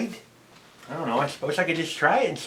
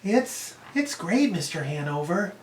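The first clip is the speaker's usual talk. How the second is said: put-on raised, airy little girl; a man doing the girl Julia, raised and airy; 3 dB quieter than usual. Shown as a demonstration. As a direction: speak like an eight-year-old girl. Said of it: "just sound like a normal little girl".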